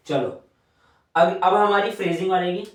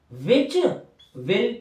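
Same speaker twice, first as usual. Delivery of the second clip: split into parts. Shown as a demonstration. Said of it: "which के साथ एल जोड़ दो".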